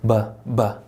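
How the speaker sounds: "바" as a soft English B; soft B sound. Shown as a demonstration. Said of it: "비읍 사운드보다 더 부드럽습니다". ("바"를 비읍보다 부드럽게)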